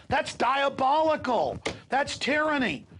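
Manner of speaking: brand it evil with full force; outraged denunciation. Real, not acted. Denouncing police tactics.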